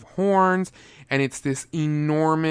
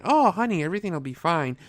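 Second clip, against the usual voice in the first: higher-pitched, sing-along "oh, honey" dropping back down; mock reassurance; 3 semitones higher, faster than usual. Reviewer mimics couple shrugging off the storm, mock reassurance. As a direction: breezily brush off the worry, mockingly.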